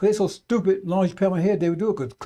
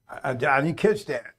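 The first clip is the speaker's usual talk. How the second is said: a lightly voiced automated phone system, a bit lower; half-hearted robot voice; mock phone robot; 4 semitones lower than usual. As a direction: imitate the stammering voice bot. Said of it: "talking like a computer like that".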